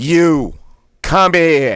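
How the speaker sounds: Boston accent, three words punched out sharply. Speaker demonstrating a phrase from an accent exercise, Bostonian accent. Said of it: "so it's Bostonian".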